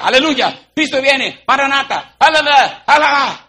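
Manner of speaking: mock fervent praise. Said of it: "la tipa que estaba diciendo".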